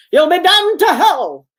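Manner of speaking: high, drawn-out cry of doom; excited grandpa. A narrator's reading. Brother imitating Grandpa's outburst to tease his sister, excited. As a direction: imitate a worked-up old grandpa's warning. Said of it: "Grandpa got all excited".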